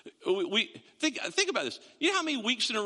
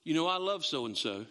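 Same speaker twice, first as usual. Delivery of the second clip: gossip's opener; 6 semitones lower than usual. Retold or imitated. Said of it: "start like this".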